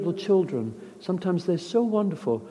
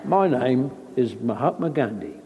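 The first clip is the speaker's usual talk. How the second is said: mock camera greeting, laughing; same unchanged voice whatever the role; Michael Caine as Gandhi; 4 semitones lower than usual. Actor teases Caine never changing dialect, laughing. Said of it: "like Michael Caine".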